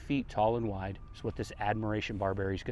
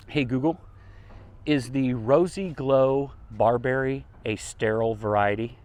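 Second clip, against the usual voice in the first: repeating to voice assistant; 2 semitones higher, 4 dB louder than usual. Real, not acted. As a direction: spell it out for the phone. Asks a phone assistant.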